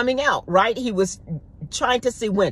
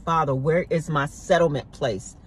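weary tired prayer; 5 dB quieter than usual. Retold or imitated. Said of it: "I know many of us asking that".

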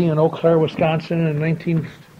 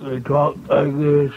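slow, feeble, failing voice; weak voice; 3 semitones lower, much slower than usual. Shown as a demonstration. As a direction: fade out like a sick old man. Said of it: "his voice got very weak".

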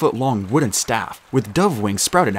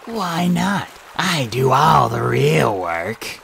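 grumbling snake; 3 semitones higher, much slower than usual. Acted. George snake complaining.

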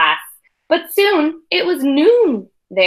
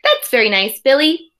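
sweet teacher; 3 semitones higher than usual. Acted. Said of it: "sweet Missus Krupp said".

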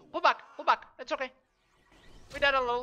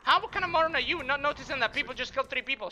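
real irritated shouting, higher and louder; angry yelling; 5 semitones higher, 5 dB louder than usual. Real, not acted. Streamer yelling at a teammate who called them morons, angry and loud. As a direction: snap back hard at the teammate who insulted you.

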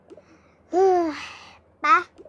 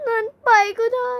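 crying; 3 semitones higher than usual. Acted. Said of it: "หยุดร้องไห้ได้แล้วนะคะแม่".

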